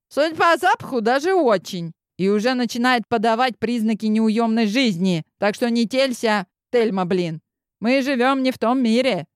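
put-on high, brash girlfriend voice; cheeky pal ribbing her friend; sassy friend voice. Friend's character voice in story.

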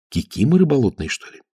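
plain reading voice

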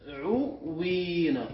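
تدعوين very slowly, broken up as tad-ʕu-wii-na; slow teacher's breakdown of تدعوين with a long wii; underlying form. Shown as a demonstration. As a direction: stretch each syllable of تدعوين, waw sounded. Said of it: "في الأصل".

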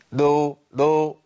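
دو دو said as a closed-nose nun, no nasal hum; stopped-up دو in place of a humming nun; nasal blocked. Shown as a demonstration. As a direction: show دو with the nasal passage shut, drawn out. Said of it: "ما تجيش معايا خالص ... قفلت مخرج الغنة".

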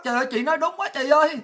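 mock lament building to a high, loud wail; mock crying. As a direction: whine like a panicked caller in tears, hammed-up. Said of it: "Có nhiều người vô khóc".

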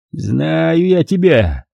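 put-on slow, drawn-out suspicious growl of a drunk; mild suspicion from a drunken brother. A narrator's reading. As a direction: eye her with slow distrust. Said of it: "вдруг подозрительно зыркнул он".

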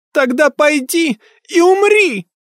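put-on high, slow, loud screaming child; ghostly screech. A narrator's reading. Ghost girl screaming at her mother to die. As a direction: scream the curse with full hate. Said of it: "издевательски взвизгнул призрак".

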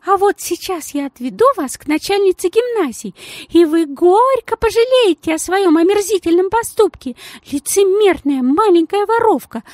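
lady hissing at the little thief, high and loud; hissing fury. A narrator's reading. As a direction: hiss the accusation in her face. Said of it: "прошипела странная особа".

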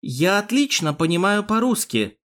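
mildly frosty statement; cold tone. A narrator's reading. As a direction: put them on notice coolly. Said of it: "холодным тоном проговорила Доминика".

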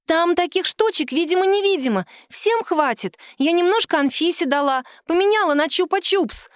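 put-on high, chattering child's voice; little girl bragging. The girl brags to the grown-ups about her trade, high and childlike.

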